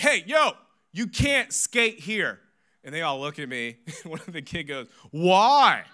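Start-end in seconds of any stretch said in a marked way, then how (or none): 0.0-2.4 high, loud, drawn-out telling-off; scolding shout. Retold or imitated. Pastor yelling at skateboarding boys, exaggerated scolding shout. 5.1-5.8 loud, high mock challenge; cheeky kid. Middle schooler talking back to pastor, loud cheeky challenge.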